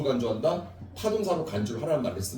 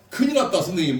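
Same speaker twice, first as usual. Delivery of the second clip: high, laughing 큰일 났다; laughing alarm; 3 semitones higher, faster than usual. Real, not acted. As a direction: laugh at your own slip. Teacher laughs at herself.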